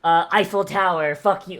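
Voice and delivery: lightly hammed-up French accent; a cheap jokey French caricature; mock French accent. Streamer mocking the game's Russian by imitating a rude French tourist, mock French accent. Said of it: "a fucking French person and going".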